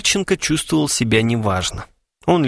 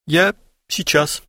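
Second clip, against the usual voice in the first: slow, faltering and higher; mild frightened babble; babbling; 5 semitones higher, slower than usual. A narrator's reading. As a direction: stammer it out in fright. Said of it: "пролепетал Харченко".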